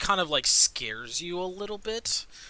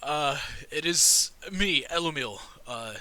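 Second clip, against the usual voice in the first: taken aback; slower than usual. Acted. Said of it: "jumps back a little bit".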